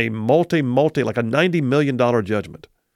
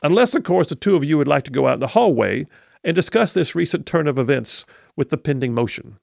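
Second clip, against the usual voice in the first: a hint of a sly Southern judge; old judge nudging them to settle; Southern accent. Attorney imitating judge suggesting hallway settlement, light Southern accent. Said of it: "you do a good Kay Ivey slash Southern accent".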